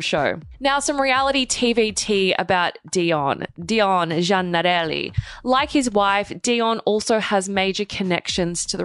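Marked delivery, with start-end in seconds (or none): 3.6-5.2 slow, low Italian accent. Shown as a demonstration. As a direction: roll the name out in an Italian accent. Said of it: "say his name like that every single time".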